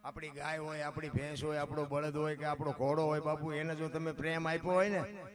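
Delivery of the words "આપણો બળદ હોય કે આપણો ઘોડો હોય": ordinary talk, nothing marked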